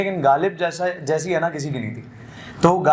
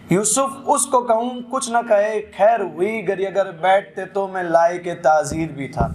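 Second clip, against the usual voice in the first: slow, lilting mushaira recital with repeated lines; ghazal recitation; 3 semitones higher than usual. Acted. Poet reciting a ghazal to the mushaira audience, lilting recital. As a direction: savour each line for the gathering.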